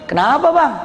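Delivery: acted patient politeness after a shock; smiling patience. Crash victim politely questioning the driver, smiling patience.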